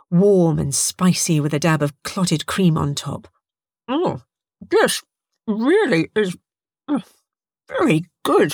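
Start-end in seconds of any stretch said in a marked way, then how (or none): 3.9-8.5 talking through a mouthful of pie; mouth full. A narrator's reading. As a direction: chew while speaking, mouth full. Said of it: "with her mouth full".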